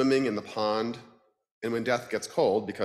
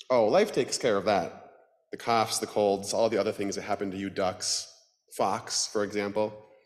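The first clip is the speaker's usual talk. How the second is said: grim reaper voice. Acted. Death character voice.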